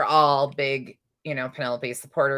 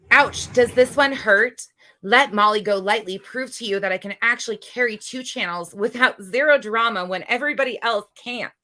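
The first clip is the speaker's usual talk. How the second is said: mocking voice; 4 semitones higher, 5 dB louder than usual. Mocking quote from rival's post.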